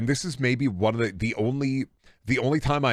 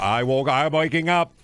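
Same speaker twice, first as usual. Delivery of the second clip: rising cartoon wake-up voice; an impression slipping toward Trump; attempted cartoon impression. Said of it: "trying to do auto, but for a second it sounded like".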